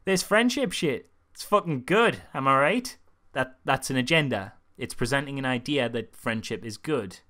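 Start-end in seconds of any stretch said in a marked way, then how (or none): 0.1-3.0 loud, hammed-up chummy endorsement; mock Toy Story pitch. Toy Story preaching friendship to viewers, mock enthusiasm. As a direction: sell it loudly like a crude pal. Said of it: "when Toy Story goes".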